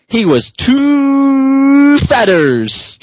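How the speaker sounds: slow words with a laugh breaking in. Real, not acted. Kid telling a silly story, cracking up. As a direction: giggle through it, stretching it out.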